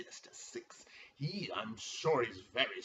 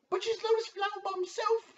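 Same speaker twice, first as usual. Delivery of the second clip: very high sustained announcer pitch; announcer call; 5 dB louder than usual. Acted. Commissioner introducing a team, announcer call. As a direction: belt the team name out.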